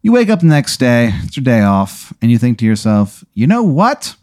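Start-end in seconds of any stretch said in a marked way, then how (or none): 3.3-4.2 higher, slow, drawn-out thinking aloud; self-indulgent resolve. Acted. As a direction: savour the little decision, stretching it out. Character resolving to treat himself.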